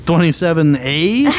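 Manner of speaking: Twenty-seven A? rising, confused; Twenty-seven A? asked back, puzzled; puzzled echo. Real, not acted. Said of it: "My Canadian accent fooled you".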